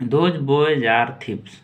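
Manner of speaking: each word slowly and clearly for the class; slow model reading. Shown as a demonstration. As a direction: read it out slowly like a teacher. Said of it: "इसको बोलेंगे those". (धीमे, साफ़ उच्चारण में)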